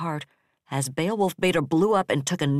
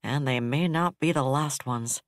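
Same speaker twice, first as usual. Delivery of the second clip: flatly. Acted. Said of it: "said flatly".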